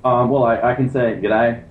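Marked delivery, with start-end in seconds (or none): 1.2-1.6 a light Australian g'day, barely shifted; Australian accent. Pretend. Asked by the hosts for an Australian accent, a mild Australian g'day. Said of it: "let's hear an Australian accent".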